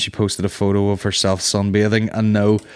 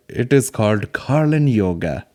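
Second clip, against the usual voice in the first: slow, grand welcome in a put-on Indian accent; mock Indian accent; 3 semitones higher than usual. Imagining owning a yoga brand, hammy Indian guru accent. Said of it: "imagine I owned a thing and I was like".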